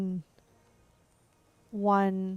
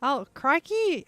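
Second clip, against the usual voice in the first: surprised crikey; 4 semitones higher, 4 dB louder, slower than usual. Real, not acted. Reacting to surprising fact.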